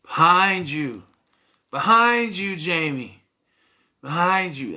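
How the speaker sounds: mock yelling. Film fan imitating Randy yelling at the TV, mock yell. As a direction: yell a warning at the screen, half-hearted. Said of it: "He's yelling".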